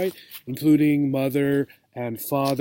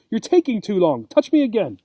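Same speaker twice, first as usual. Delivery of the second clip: impatient; 5 semitones higher, faster than usual. Acted. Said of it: "cried Sugar Smacks".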